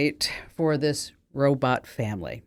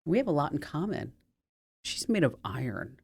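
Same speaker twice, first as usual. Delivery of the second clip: proud and tender; 4 dB quieter than usual. Acted. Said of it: "holds his head up proudly and says".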